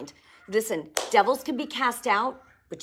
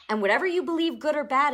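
preaching emphasis; 7 semitones higher, 5 dB louder, faster than usual. Real, not acted.

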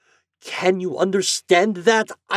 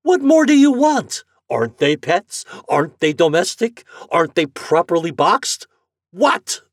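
loud, higher, exasperated; angry customer; 12 semitones higher, 9 dB louder than usual. Acted. Morehouse arguing with the agent, exasperated and loud. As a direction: hammer each point home.

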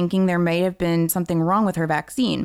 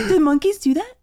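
laughing; 12 semitones higher, 4 dB louder than usual. Real, not acted. Still laughing at Monkey Brain.

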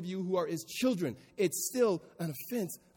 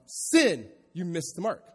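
louder archery official calling out; yelled call; 2 semitones higher, 8 dB louder, slower than usual. Retold or imitated. Official at archery calls the miss, mock yell. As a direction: call the miss across the range. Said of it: "the official would yell out".

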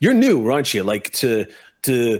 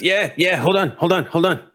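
higher, busy little goblin voice; eager goblin; 7 semitones higher than usual. Acted. Goblin answers Mateo, higher and eager. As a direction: scramble to hand it over. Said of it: "the goblin goes".

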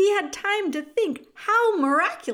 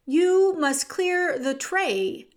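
slow, loud, higher-pitched order; shouted; 5 semitones higher, 5 dB louder, slower than usual. A narrator's reading. Cook repeats the order to Meg, slowly shouted. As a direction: shout each word slowly. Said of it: "shouted Cook".

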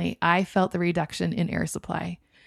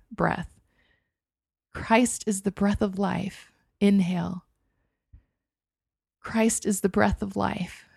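prayerful mantra. Acted. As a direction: breathe the words like a prayer.

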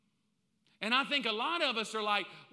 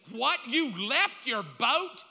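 indignant wife; 2 semitones higher, 6 dB louder, much slower than usual. Retold or imitated. Wife scolding husband.

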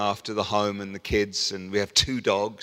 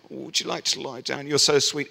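sugary coaxing, the voice he says it wasn't; gently coax, higher and sweet; mock-polite sweet offer; mock sweet invite; 3 semitones higher than usual. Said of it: "It wasn't".

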